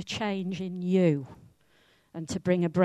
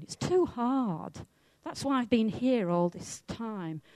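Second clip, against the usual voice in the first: whining excuse; 3 semitones higher than usual. Acted. Man at the pool explains his long wait, mildly whining. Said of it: "he's whining and he's making excuses".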